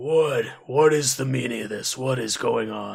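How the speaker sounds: deep-voiced delivery. Voicing a figure heard from behind in a story scene: deep voice. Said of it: "You hear a deep voice come from the from behind".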